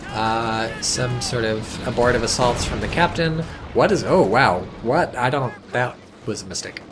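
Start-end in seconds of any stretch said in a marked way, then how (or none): 3.7-5.1 surprised. Real, not acted. Sudden surprise during the match.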